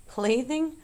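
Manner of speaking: surprised, dignified query; affronted. A narrator's reading. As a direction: repeat it as if faintly insulted. Charlotte takes offence at the question.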